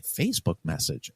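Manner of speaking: breathy, high disbelieving echo; half-whispered, stunned repeat of his words; mock disbelief; incredulous. Incredulous retelling of chief's question.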